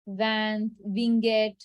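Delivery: "van, winget" read as spelt, consonants sounded; imitating learners misreading "van, winget"; common mispronunciations. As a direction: say "van, winget" with the written N and G heard. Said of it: "So people pronounce it as".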